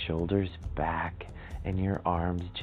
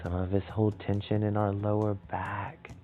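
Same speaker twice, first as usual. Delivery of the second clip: calm, measured relaxation guidance with long pauses; soothing meditation leader, unhurried and gentle; guided meditation; 3 dB quieter than usual. Acted.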